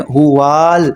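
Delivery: ہوال with no break, as one word; run together. Shown as a demonstration. Teacher shows students the joined ہوال. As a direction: join هو and ال into ہوال. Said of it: "واو کے ساتھ الف ہے".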